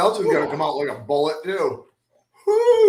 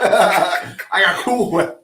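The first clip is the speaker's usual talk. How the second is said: laughing; 3 semitones higher, 5 dB louder, much slower than usual. Real, not acted. Laughs repeating Cool Whip.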